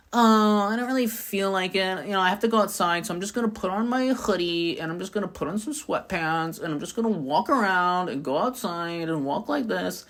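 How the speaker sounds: soft, can't-be-bothered mumbling to yourself; self-hating energy. Acted. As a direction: act out having no will to dress up, voice dropped. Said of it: "that self-hating energy".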